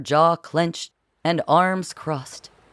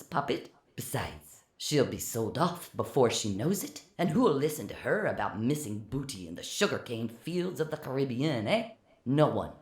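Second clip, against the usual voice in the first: much softer, muffled behind a door; 2 semitones lower, 9 dB quieter than usual. A narrator's reading. Francois behind the door to Philip, muffled and soft. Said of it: "his voice muffled".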